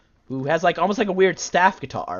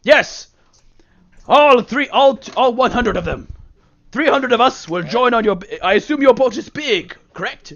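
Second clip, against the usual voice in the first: Mushroom King voice; 4 semitones higher, 3 dB louder than usual. Acted. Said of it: "he says".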